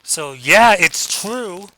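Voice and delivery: over-intense, with a loud, high swoop; too emotional. Shown as a demonstration. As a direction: gush it as if over-invested. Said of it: "where you get too emotional over something".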